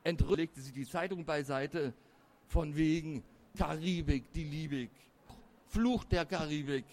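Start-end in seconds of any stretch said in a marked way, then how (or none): 2.5-6.8 mildly scornful, disenchanted; dismissive echo. A narrator's reading. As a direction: scoff at the dream just savoured. Disillusioned echo of her earlier rapture.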